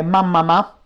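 "mamma ma" said the Neapolitan way, short "ma"; neapolitan accent. Shown as a demonstration. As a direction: Neapolitan pronunciation of "mamma ma", long double m. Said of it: "pronunciata alla napoletana sarebbe".

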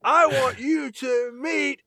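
high, slow, choked-up mock sob; mock tearful. Jake thanking the crowd at the party, mock tearful and slow. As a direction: ham up a teary thank-you, drawn out. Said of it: "Jake almost starts crying".

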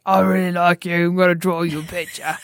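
a hint of a drunk man making peace; mild mock friendly voice; Simon Beasley voice. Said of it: "doing the Simon Beasley voice".

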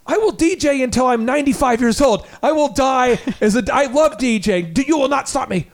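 replaying his stubborn vow, half-hearted fury; retold rage. Host retelling vow to wife, mild mock anger. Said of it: "in a fit of rage".

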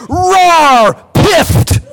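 creature shriek. Acted. Mount's hissing cry.

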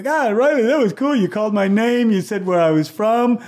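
high, loud gushing thanks; excited praise. Retold or imitated. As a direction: gush to him about the race. Runners thanking the announcer.

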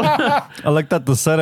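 slow laughing retelling; chuckling as he says it. Real, not acted. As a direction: laugh through the words. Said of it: "laughing retelling".

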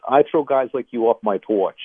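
put-on a light tough New Jersey accent; a hint of Northern New Jersey accent. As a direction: do the Jersey guy on his porch, lightly. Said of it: "in a good Northern New Jersey accent".

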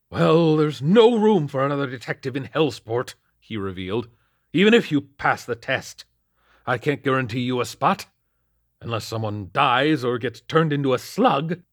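put-on high, loud, scolding old boss; gruff captain. A narrator's reading. Captain scolding Lakely about Hellsport beat, loud and high. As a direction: bark at the rookie.

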